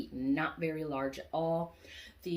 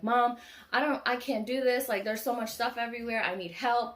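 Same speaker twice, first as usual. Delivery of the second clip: overwhelmed plea; 5 semitones higher, 4 dB louder than usual. Retold or imitated. Overwhelmed, calls mom for help.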